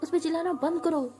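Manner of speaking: high, loud mock shout; retold yelling back. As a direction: snap back loudly in a friend's defence. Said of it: "boss को चिल्ला देती है".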